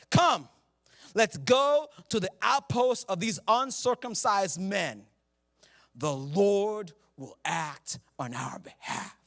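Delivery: slow, stirring delivery of a battle call; a lightly rousing call without the word perhaps; inspiring reading. Shown as a demonstration. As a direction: read it like a rallying cry. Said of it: "Let's read it like that word's not there".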